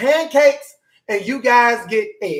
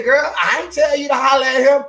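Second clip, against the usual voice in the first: put-on girlfriend voice; 6 semitones higher, 5 dB louder than usual. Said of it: "she gonna say".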